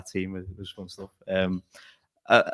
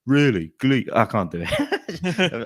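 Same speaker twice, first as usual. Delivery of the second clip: put-on Brummy accent; 5 semitones higher, 4 dB louder, much slower than usual. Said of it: "I'm trying to do a, a Brummy accent".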